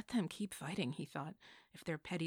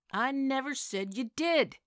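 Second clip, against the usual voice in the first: rising, louder, slower indignant retort; 8 semitones higher, 12 dB louder, slower than usual. Acted. Bill Peterson arguing back at Missus J, voice rising loud. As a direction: let the voice climb in indignation. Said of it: "His voice rose".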